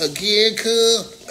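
sharp, high and loud, calling it out; "Again" barked high and loud; loud taunt. Real, not acted. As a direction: yell "Again, cuz" up high to rub it in. Taunting opponent, repeating the count.

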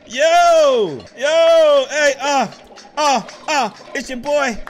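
hyped-up mock rapper intro, loud at first; rapper hype intro. Gamer hyping his toy band, mock rapper intro. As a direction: announce yourself like a rapper about to spit bars. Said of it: "I always try to spit some bars".

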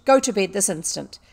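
loud, stern command; angry order. A narrator's reading. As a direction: order her off at once. Furious headmistress orders bed.

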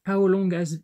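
slow, careful English title in a heavy French accent. Real, not acted. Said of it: "mon accent de merde". (anglais lent avec un fort accent français)

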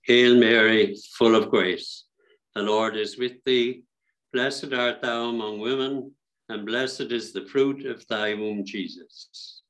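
devotional recitation, firm opening, falling close; recited prayer. Real, not acted. Leader praying the Hail Mary for the response, recited prayer.

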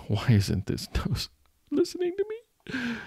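playful fake exasperation, voice jumping up; mock frustration. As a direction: whine it up high like a fed-up kid. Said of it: "Sorry, I'm getting so emotional".

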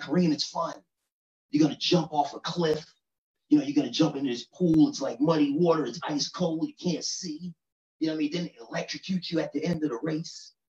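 high, eager pitch of a mud race; a light take on an excited suburban friend; excited white friend. Retold or imitated. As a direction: sell the crazy race brightly, up high.

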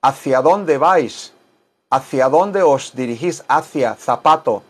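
imitating Spaniards, TH for c and z; Castilian accent. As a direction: Spain Spanish demonstration. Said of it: "La gente de España".

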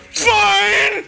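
high, strained cry; hammed-up huffy squeal; mock tantrum. Friend playing the upset son, mock high cry.

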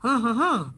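three short hums falling at the end; hummed Bangla tune. Shown as a demonstration. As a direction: hum the Bangla greeting melody. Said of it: "এই সুর কিন্তু বাংলা সুর". (বাংলা সুরে গুনগুন)

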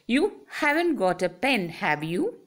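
"have you" rising at the end, asking for information. Shown as a demonstration. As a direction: lift the voice on "have you" to check. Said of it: "that is why I raised my voice".

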